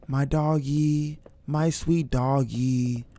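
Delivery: slowly coaxing the dog closer. Real, not acted. Streamer pleading with his game dog, slow and coaxing.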